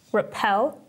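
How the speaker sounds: "Repel" with the weight on "pel"; light "Re", stressed "pel" in "Repel"; stress on second syllable. Shown as a demonstration. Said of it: "the second syllable is the stressed syllable".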